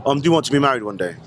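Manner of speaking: put-on London accent, a bit cheeky; British accent put on by an American; fake London accent. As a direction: play a Londoner doing a street interview. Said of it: "I do the accent 'cause it's a fun thing to do".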